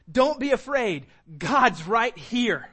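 loud, firm proclamation; emphatic reassurance. Acted. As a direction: raise your voice, slow on the last words. Jesus voiced reassuring frightened disciples.

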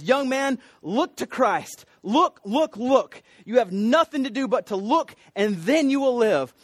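Primitive Methodist preacher shouting. Retold or imitated. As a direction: call out like an old revival preacher, mildly shouted. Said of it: "he shouted as only a primitive Methodist would do".

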